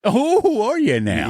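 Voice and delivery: sudden high, loud outburst; loud and excited. Real, not acted. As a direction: blurt it out too loud, excitedly. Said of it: "I got a little loud there. I was excited".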